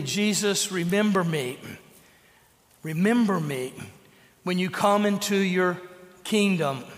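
heartfelt plea. Retold or imitated. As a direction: plead gently to be remembered. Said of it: "heartfelt plea".

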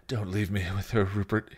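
subdued plea; begging. Acted. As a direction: beg with a touch of dread. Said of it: "he begged".

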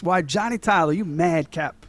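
a touch of mock-Southern movie gunslinger; bad Southern accent. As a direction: try an amateurish imitation of a Southern accent. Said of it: "my Southern accent's worse than his".

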